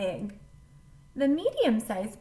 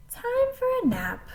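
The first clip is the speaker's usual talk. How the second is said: put-on high, bright little-girl voice; sleepy thought; 13 semitones higher, 5 dB louder than usual. A narrator's reading. Girl getting sleepy, high voice. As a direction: lift it up like a drowsy child. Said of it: "she thought".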